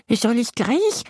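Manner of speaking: high, keen question; eager little monster. Acted. Tiny monster eagerly asks Yassin, high. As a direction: ask like it can't wait. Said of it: "fragt es eifrig".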